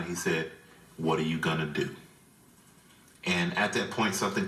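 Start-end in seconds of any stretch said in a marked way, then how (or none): 1.0-1.9 low, deep fatherly challenge; imitating dad's deeper voice. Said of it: "his voice got deeper than mine".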